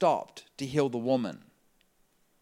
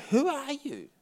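astonished question; 14 semitones higher, 5 dB louder, slower than usual. Retold or imitated. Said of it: "she says".

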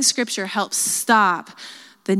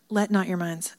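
softly attempted British accent; tentative, quiet go at British; 2 semitones lower, 6 dB quieter than usual. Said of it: "I read that in a British accent".

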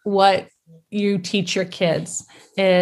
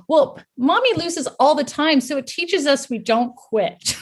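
higher-pitched, lightly voiced little kid; mock child explaining, laugh creeping in at the end; earnest child; 6 semitones higher than usual. Daughter answers the TV interviewer, lightly imitated earnest child.

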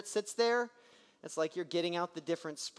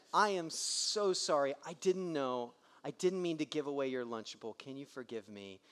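tender apology; 4 semitones lower than usual. Retold or imitated. Dad apologizing tenderly to son.

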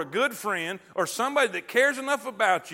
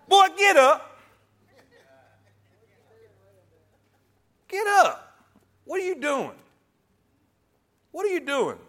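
firm rebuke. Shown as a demonstration. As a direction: bark Boy, get up like a stern father. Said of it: "Let's try that again".

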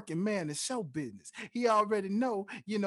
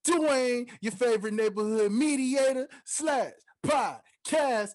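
higher, louder hype intro; hype announcer; 6 semitones higher, 4 dB louder, slower than usual. Acted. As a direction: pump up the crowd.

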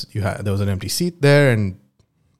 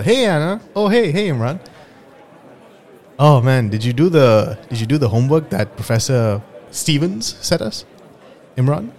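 Anna's voice; 4 semitones higher than usual. Acted. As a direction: play shy Anna, pitched up. Acted dialogue, Anna greeting.

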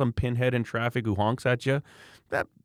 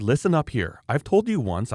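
firm retold warning, higher pitch; very clear; 4 semitones higher than usual. Dad confronting the mother on the hill, firm. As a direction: lay down the law. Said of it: "you're very clear".

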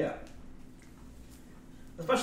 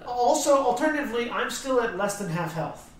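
pleading; 9 semitones higher, 6 dB louder than usual. Acted. Begging for a heal.

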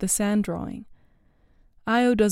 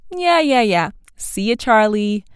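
smiling dismissal; 6 dB louder than usual. A narrator's reading. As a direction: wave him off with a grin. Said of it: "with a big smile on her face".

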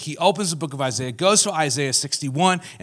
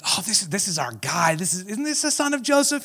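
mock townsfolk; 3 semitones higher than usual. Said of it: "they're like".

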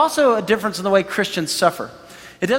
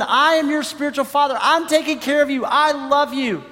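fatherly Paul; 7 semitones higher than usual. Retold or imitated. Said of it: "Paul's going".

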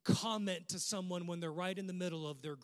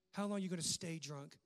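a mild hint of judging scorn; understated accusing question; judgmental tone; 4 dB quieter than usual. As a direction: read it as the judging priest, lightly. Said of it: "Listen to the judgment in the tone".

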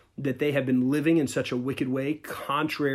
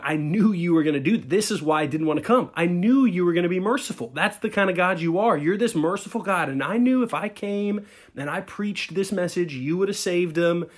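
retold angry yell; 4 semitones higher than usual. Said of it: "he even yells back at God".

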